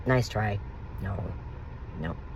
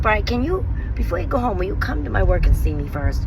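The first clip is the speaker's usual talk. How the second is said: pleading request; 5 semitones higher than usual. Retold or imitated. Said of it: "I'm like".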